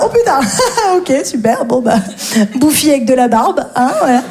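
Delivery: «Oh putain» lancé très aigu, surpris; surprise imitée. Retold or imitated. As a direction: jouer la surprise en croisant un ex. Croiser un ex, réaction. (surprise moqueuse, voix montée)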